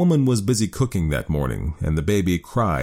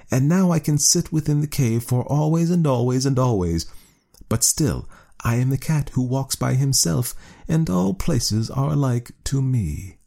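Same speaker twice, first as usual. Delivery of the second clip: snooty bored cat; 7 semitones higher than usual. A narrator's reading. Cat voiced in story.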